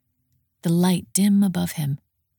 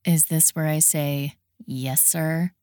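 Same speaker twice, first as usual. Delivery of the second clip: bored; slower than usual. Acted. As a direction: sound utterly unimpressed. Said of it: "in a bored tone".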